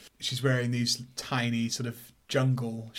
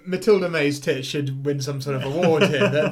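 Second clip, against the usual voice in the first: normal talking voice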